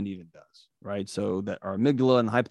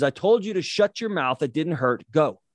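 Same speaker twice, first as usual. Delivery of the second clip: a retold father yelling at his crying boy; harsh dad; 5 semitones higher than usual. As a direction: bark it like an impatient dad. Dad hollers at crying son.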